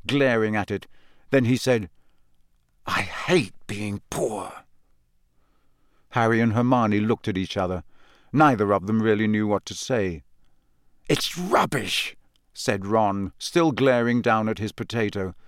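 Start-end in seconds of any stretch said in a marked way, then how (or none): 2.8-4.5 slow, softer, bitter; gloomy. A narrator's reading. Ron glaring at his potato. 11.1-12.1 sullen. A narrator's reading. Ron still glaring.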